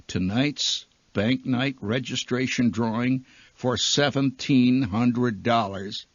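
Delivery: measured, level announcement with the figure drawn out; solemn announcer. Acted. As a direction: announce it gravely, no razzle-dazzle, stretching the amount. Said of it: "and in a quiet voice".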